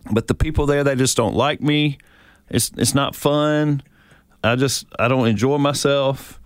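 a touch of a reluctant whine; mildly whiny husband. Acted. Husband tells his wife why he won't go to church, mildly whining.

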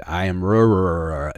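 stuck stammering on the r of wrong; mock Fonzie choking on the word; a lightly voiced Fonzie who can't get wrong out; Fonzie unable to say it. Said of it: "Fonzie in Happy Days could never say".

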